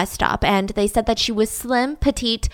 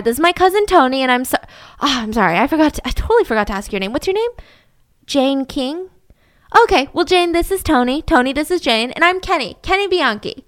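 lightly higher, louder nice-guy voice; Kenny introducing himself to Jane, lightly higher; friendly introductions; 4 semitones higher, 4 dB louder than usual. Retold or imitated. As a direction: keep it friendly.

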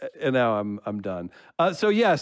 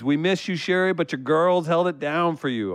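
all-caps reading; 5 semitones higher than usual. Acted. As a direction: proclaim it as if typed in capitals. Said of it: "all caps".

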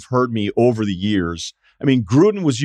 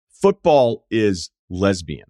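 slow deadpan ad read; 6 semitones lower, much slower than usual. Retold or imitated. Reading out the ad text.

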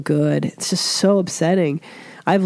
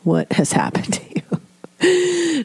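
husband's mock bafflement. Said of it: "And he's like".

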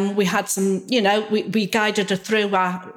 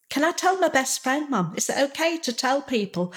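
put-on timid child's question; 6 semitones higher, 3 dB quieter than usual. Daughter voiced asking timidly.

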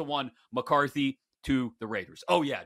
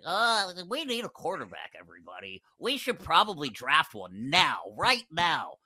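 mock the owner pleading for a quarterback; imagined Mark Davis voice. Host keeps mocking the Raiders owner, light impression. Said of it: "he talks like that".

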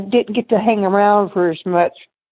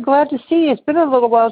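higher, friendly welcome; retold happy greeting to a friend; glad to see you; 5 semitones higher, much faster than usual. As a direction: sound truly pleased to run into her. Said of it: "I said".

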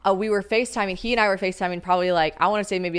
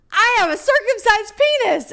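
mock indignant; 14 semitones higher, 5 dB louder than usual. His indignant reply, retold.

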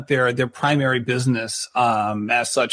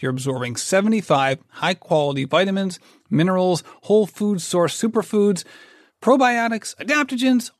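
upbeat podcast sponsor read. Acted. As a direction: sell the product brightly. Reads sponsor ad.

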